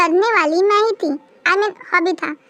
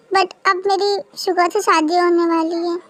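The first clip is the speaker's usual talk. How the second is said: tearful. Acted. Bride pleads, marriage near.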